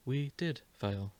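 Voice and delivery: said softly. Acted. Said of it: "Minoru says softly".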